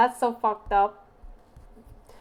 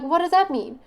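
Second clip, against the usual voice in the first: louder, higher baffled asking; incredulous question; 4 semitones higher, 8 dB louder than usual. Retold or imitated. Retelling her own confused reply to the friend, loudly baffled. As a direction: demand an explanation in disbelief. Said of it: "I was like".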